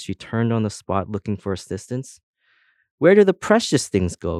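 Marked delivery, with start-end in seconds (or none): 3.0-4.4 cry out. A narrator's reading. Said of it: "cried her sister".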